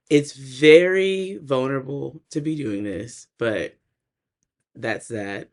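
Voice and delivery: rough, unused-sounding voice; rusty unused voice. Real, not acted. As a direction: voice a bit rusty today. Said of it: "excuse my voice".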